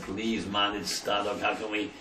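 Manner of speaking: soft, pleading whimper; mild retold whimpering plea. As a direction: beg quietly like a broken man. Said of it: "He was whimpering".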